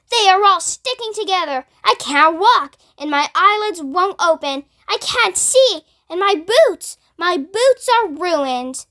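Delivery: high, anguished complaint; distressed crying out. Acted. Centipede crying out to the others about his paint-stuck legs. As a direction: lament the ruined boots in despair. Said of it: "he cried".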